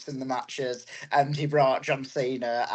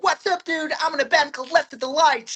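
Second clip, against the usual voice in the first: put-on very high American pop punk accent; 6 dB louder than usual. Recalling their old band days before wrestling, in a put-on american accent. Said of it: "putting on American accents".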